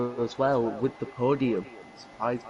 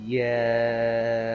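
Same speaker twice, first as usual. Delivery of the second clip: voice crack; 5 dB louder than usual. Real, not acted. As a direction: voice cracking on the word. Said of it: "another voice crack".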